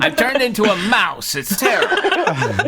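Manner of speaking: high squeaky irritated yell. Acted. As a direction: yell it high, annoyed and laughing. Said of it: "yelled an irritated voice".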